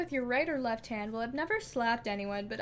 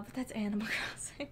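whispered aside; 3 semitones lower, 6 dB quieter, faster than usual. Real, not acted. Muttered self-correction aside.

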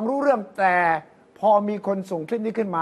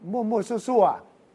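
drawn out; 2 semitones higher, much slower than usual. Real, not acted. Mocking sloppy speech.

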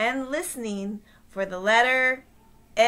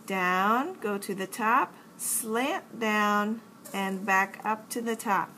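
slow exaggerated speech modeling; slower than usual. Shown as a demonstration. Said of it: "Let's learn how to make the uppercase N".

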